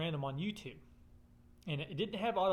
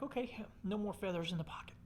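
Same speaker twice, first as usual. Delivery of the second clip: soft, breathy whispered plea; 4 semitones higher, 5 dB quieter than usual. Retold or imitated. Talking to himself about the feathers, whispered plea. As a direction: whisper it like a private prayer. Pleading inner thought, whispered.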